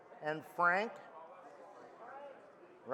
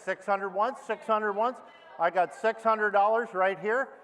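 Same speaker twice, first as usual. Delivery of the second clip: auctioneer; 2 semitones higher than usual. Acted. Auctioneer bid calling.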